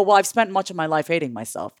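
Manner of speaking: soft, low, sincere; quiet sincere answer. Retold or imitated. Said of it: "I go".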